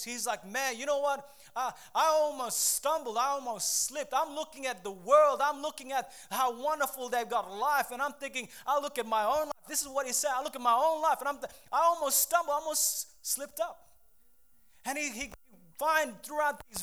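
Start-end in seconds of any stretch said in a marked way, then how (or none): 0.5-9.7 mildly worked-up, pleading David; David making case. Acted. Preacher voicing David's complaint to the congregation, mildly worked-up. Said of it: "David is making his case". 10.3-13.9 raised, insistent complaint as David; David making case. Acted. Preacher acting out David's near slip, raised and insistent. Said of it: "David is making his case".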